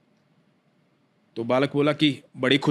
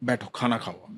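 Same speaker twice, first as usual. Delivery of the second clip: soothing; 2 semitones lower, 4 dB quieter than usual. Retold or imitated. Boy soothing the angry devotee.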